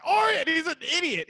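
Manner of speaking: high, put-on cartoon Scottish voice; Groundskeeper Willie. Podcaster mocking a Simpsons groundskeeper, high cartoon voice. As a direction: blurt it like a cartoon Scotsman. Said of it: "Groundskeeper Willie is a cartoon".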